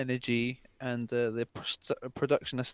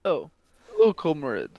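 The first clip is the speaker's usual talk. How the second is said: mock Russian accent greeting, lifted and louder at first; 4 dB louder than usual. Co-host greets the host in a joking Russian accent. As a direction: ham up a Russian greeting to a comrade. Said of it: "I don't think we have to do the Russian accent".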